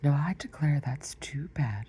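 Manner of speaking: a touch of indignant temper; sudden passion. Acted. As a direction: flare up in a huff. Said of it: "breaking into a sudden passion".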